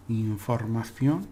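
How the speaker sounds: información with a Spanish lisped ci, stress on ción; Spanish pronunciation. Shown as a demonstration. Teacher modelling the Spanish word after the English. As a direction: say información the Castilian way. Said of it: "so, for example".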